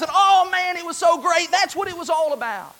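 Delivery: high, bright-eyed pretend saint, a little far-off; wistful voice from heaven. Preacher voicing a saint in heaven, awed and high. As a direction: voice a believer gazing down at earth in awe. Imagined saint looking back.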